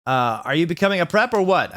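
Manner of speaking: high, accusing snap; hammed-up goth accusation; mock angry. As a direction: demand it suspiciously. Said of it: "I shooted angrily".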